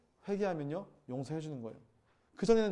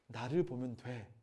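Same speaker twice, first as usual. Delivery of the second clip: slow, softer, lower reassurance; gentle reassurance; 6 semitones lower, 6 dB quieter, slower than usual. Retold or imitated. The Lord to a struggling believer, slow and tender. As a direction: say it slowly and tenderly.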